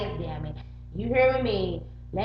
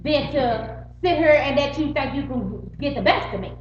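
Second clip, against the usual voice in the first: defiant retort; 4 semitones higher, 4 dB louder than usual. Retold or imitated. Retold defiant answer.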